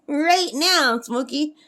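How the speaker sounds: coaxing the bird to repeat it; prompting a pet. Shown as a demonstration. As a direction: model the phrase for a parrot to copy. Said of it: "I'm trying to get her to say it".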